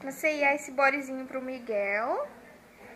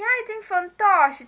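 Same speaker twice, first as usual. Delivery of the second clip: excited; 6 semitones higher, 9 dB louder, much slower than usual. Retold or imitated. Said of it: "todo animado".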